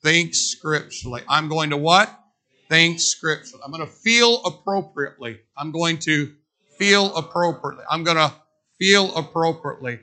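leading the chant; call and response. Acted. Preacher leading congregation in repeating slogan, measured chant. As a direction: say each phrase for them to repeat. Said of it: "Say it with me".

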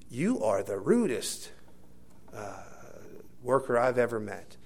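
slow, deliberate rebuke in a lightly voiced preacher's tone; strong preacher's voice. Irate passenger telling off the stewardess, mild preacher's voice. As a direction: retell it as a measured preacherly pronouncement. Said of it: "he had that strong preacher's voice".

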